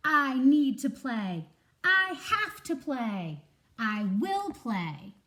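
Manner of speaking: slow, loud, insistent declaration; desperate squirrel begging to play; determined shout. Acted. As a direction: hammer each line home like a vow. Jules insists he must play.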